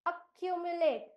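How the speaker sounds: accumulate said carefully, ending in "late"; pronunciation demo. Shown as a demonstration. Teacher reveals right answer, accumulate sounded out carefully. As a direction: model accumulate clearly as a-kyu-mu-late. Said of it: "इस शब्द का सही उच्चारण चुनिए".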